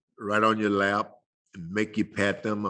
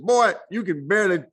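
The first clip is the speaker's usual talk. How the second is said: mom's voice pitched much higher, fast on "feed you"; scolding mom; 8 semitones higher than usual. Retold or imitated. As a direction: play a mother shooing her boy off, higher voice. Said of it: "She said".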